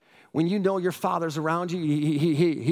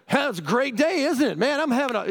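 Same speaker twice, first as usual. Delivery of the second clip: put-on much higher, bright kid's greeting; cheerful little boy; 6 semitones higher than usual. Imitating the confident boy greeting him in the woods. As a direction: chirp it like a bold five-year-old. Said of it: "he's like".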